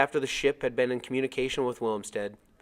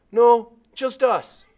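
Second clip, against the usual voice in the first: loud, higher, slow call; 13 semitones higher, 13 dB louder, much slower than usual. Acted. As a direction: stretch each word so it carries. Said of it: "I called out".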